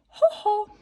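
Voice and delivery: high gleeful ho ho; gleeful witch. A narrator's reading. Witch spotting a frog to enchant, gleeful. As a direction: cackle it out with glee. Witch gloating before spell.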